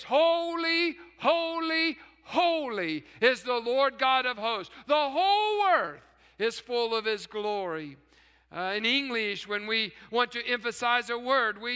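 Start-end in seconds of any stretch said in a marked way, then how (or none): 0.0-8.0 angels' cry. Retold or imitated. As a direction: call it out like angels crying in worship. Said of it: "they sang this".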